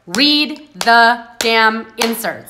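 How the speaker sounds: slow, loud and blunt; curt reply read out slowly and firmly; blunt demand. Shown as a demonstration. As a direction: lay down the order bluntly, drawn out.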